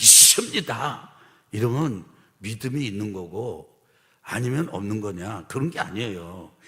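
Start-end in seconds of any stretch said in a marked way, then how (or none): 0.0-1.1 tense, loud, forceful, hard-hit pronunciation. Showing how people declare 믿습니다 with clenched fists: forcefully pronounced. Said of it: "두 주먹을 불끈 쥐고 막 온몸을 경직되게 갖고 발음을 세게 하면서".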